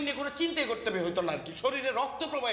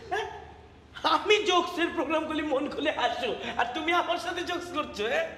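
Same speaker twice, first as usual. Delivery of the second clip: ordinary delivery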